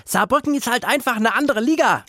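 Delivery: simpler coach quote. Retold or imitated. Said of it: "Wie hätte er das einfacher ausdrücken können?".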